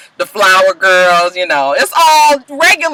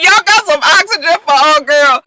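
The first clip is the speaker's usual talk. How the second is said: sarcastic; 6 semitones higher than usual. Retold or imitated. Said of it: "I said".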